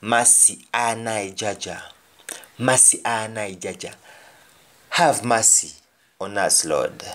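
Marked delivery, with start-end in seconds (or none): 0.0-1.8 Jamaican patois. Shown as a demonstration. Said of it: "And then lastly". 2.6-3.9 Jamaican patois. Shown as a demonstration. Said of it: "And then lastly".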